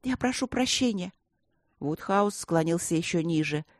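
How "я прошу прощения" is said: a hint of a bitter sigh; bitter apology. A narrator's reading. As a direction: apologise with a heavy heart. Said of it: "горько вздохнула Эбби".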